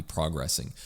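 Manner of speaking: progressing said as PRAH-gressing; odd pronunciation. Real, not acted. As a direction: open AH in the first syllable of progressing. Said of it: "really weird way of pronouncing progressing".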